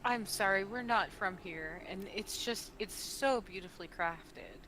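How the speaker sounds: gentle, earnest admiration; softening into heartfelt compliment; sincere. Acted. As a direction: apologize and praise without any sarcasm. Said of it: "there's no sarcasm in my voice".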